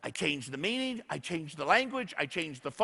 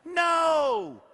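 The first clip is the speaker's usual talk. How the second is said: a higher, louder, shouted "No"; emphatic no; 8 semitones higher, 5 dB louder than usual. Real, not acted. Speaker answers his own question with a shouted no. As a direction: slam the answer home.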